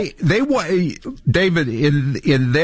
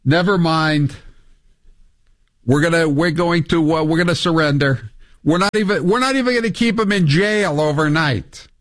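mocking prime minister; 5 semitones higher than usual. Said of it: "He goes".

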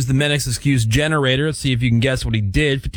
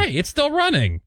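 put-on 1 drunk guy; 14 semitones higher than usual. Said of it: "and he's like".

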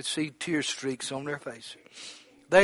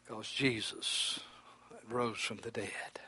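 slow whispered awe; hushed whisper; 4 semitones lower, 12 dB quieter, slower than usual. Acted. Preacher hushing the church about the resurrection, whispered. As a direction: whisper it slowly, full of wonder.

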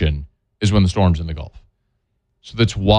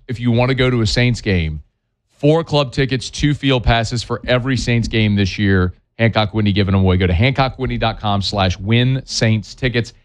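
steady radio ad read. Acted. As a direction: read the giveaway like a live spot. Sponsor giveaway read.

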